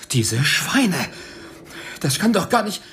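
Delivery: steigernd, höher, zuletzt langsam gepresst; Schimpfwörter voller Abscheu ausspucken; bitterer Fluch. Acted. George flucht über Verrat. (verbittert fluchend, am Ende langsam)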